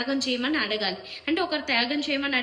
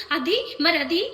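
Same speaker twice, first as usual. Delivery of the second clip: imitating contestants shouting, a bit higher and louder; mocking loud arguing; 4 semitones higher, 4 dB louder than usual. Vlogger mocking how housemates shout their points, mock loud heated voice. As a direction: mimic the heated loud voices they use in arguments. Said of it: "ఎందుకు అంత ఆవేశంగా గట్టి గట్టి గొంతులతో".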